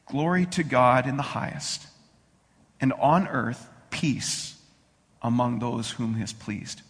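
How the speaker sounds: measured Bible reading voice; scripture reading. Acted. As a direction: read the Christmas story with reverence.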